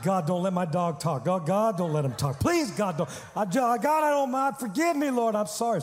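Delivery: mildly panicked begging prayer, climbing in pitch; mock pleading. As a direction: beg for mercy in mock alarm. Acts out panicked prayer about dog.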